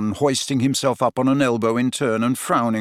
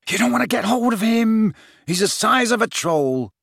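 reasonable Ron; 10 semitones higher than usual. A narrator's reading. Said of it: "said Ron reasonably".

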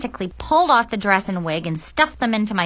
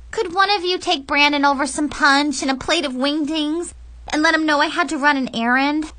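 put-on higher girlish voice, covering up; over-casual, pitched-up pleading; nervous excuse; 5 semitones higher than usual. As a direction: ask a favour while fibbing lightly. Girl makes an excuse to friends.

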